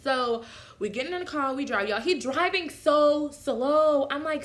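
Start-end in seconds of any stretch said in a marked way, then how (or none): 1.9-4.1 exasperated. Real, not acted. Complaining partner drives slowly.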